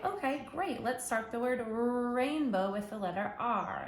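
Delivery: bright praising teacher lift on okay; encouraging teacher. Shown as a demonstration. Teacher praising a child at journal time, encouraging. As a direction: praise the child, then guide.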